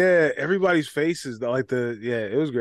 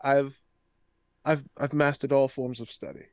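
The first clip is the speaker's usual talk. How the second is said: pompous aristocrat, lightly voiced; a self-important noble introducing himself; posh noble character; 4 semitones higher than usual. Plays a stuffy noble character.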